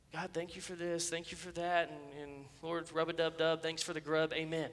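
subdued, perfunctory grace recited by habit; mock rote prayer. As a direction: mumble through a token prayer, mocking it. Mimics a rote, thoughtless prayer.

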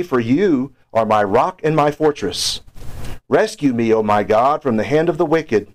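measured, solemn reading of the psalm; scripture reading. Acted. Pastor reads the psalm to the congregation in a solemn reading voice. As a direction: read the psalm as a prayer from the pulpit.

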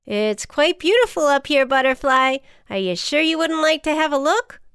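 high, loud, chipper ant; animated storybook ant calling out; encouraging ant. A narrator's reading. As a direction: coax a friend to peek. Voices the ant.

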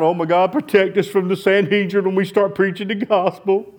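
high, loud pleading prayer; hammed-up desperate plea for protection; mock crying out. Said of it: "They don't cry out".

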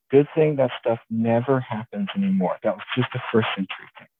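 sarcastic. Real, not acted. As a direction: say it straight-faced while meaning the opposite. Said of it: "Obviously, I'm being sarcastic".

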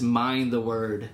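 slow, weighty "Mind the word"; slow emphasis. Retold or imitated. Sergeant urging a young Marine to study scripture, slow and weighty. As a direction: lean slowly on each word of "Mind the word". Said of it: "But he would always emphasize".

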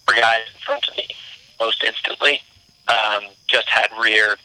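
choppy call audio, bad connection. Real, not acted. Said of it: "Hey, Mark, you're cutting out".

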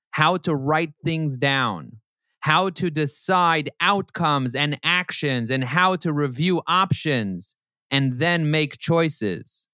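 slow, deliberate book reading; reading aloud. Acted. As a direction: read it out carefully, giving each phrase room. Reads from a book.

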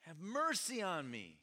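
high, loud, drawn-out desperate cry; desperate shout. Acted. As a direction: call out over a crowd, slow and huge. Blind man shouts for Jesus.

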